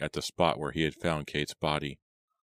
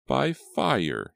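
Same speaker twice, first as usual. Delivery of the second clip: high, swooping crone voice; ominous crone murmur; 9 semitones higher, 4 dB louder than usual. A narrator's reading. Old Aggie answering Simon with doom, croaky and ominous. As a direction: pronounce it as dark prophecy. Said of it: "she murmured".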